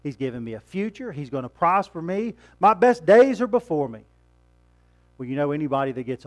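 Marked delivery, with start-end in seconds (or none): 0.0-4.0 mock self-assured quote. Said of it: "just like that guy did".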